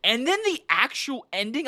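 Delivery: usual speaking voice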